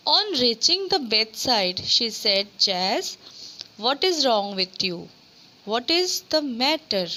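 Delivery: slow, careful reading aloud for a class; reading the lesson's story aloud to students. A narrator's reading. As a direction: read each English word slowly and clearly. Teacher reads story text aloud.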